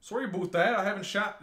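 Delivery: tentative mock-Canadian "aboot"; Canadian accent. Shown as a demonstration. Copying friend's apology, mock Canadian accent. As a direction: try a Canadian lilt, unsure. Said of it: "just Canadian then".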